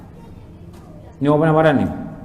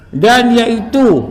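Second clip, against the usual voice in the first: higher, slow, deliberate reading; reading text aloud; 4 semitones higher, 4 dB louder, much slower than usual. Acted. Teacher resumes reading the lesson's text, slow reading. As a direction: read out the text with weight.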